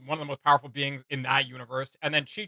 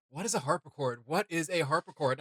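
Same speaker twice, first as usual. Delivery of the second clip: musing to self; 5 dB quieter than usual. Retold or imitated. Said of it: "my brain keeps going".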